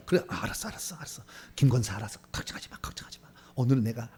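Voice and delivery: soft, low acted husband placating his wife; dropping toward a whisper; hushed reassurance. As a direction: brush off her worry under your breath.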